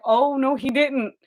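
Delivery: high, shocked gasp of disbelief. Retold or imitated. The photographer reacts to the dad calling his kid ugly, high and shocked. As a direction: act scandalized. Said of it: "I'm like".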